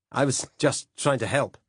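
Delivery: pleading. A narrator's reading. Caught, pleading innocence.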